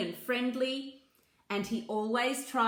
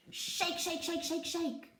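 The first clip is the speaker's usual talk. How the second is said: rhythmic shake; 7 semitones higher, 6 dB quieter than usual. Acted. Bear shaking the hive.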